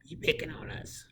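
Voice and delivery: very high mock student whine; squeaky, put-on pupil complaint; complaining student. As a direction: imitate a kid protesting in falsetto. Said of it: "And somebody say".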